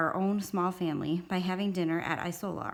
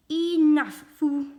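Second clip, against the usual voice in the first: put-on loud, high toddler shout; toddler's yell; 9 semitones higher, 9 dB louder, much slower than usual. A narrator's reading. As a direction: yell it out like a table-banging toddler. Toddler banging table, yelling along.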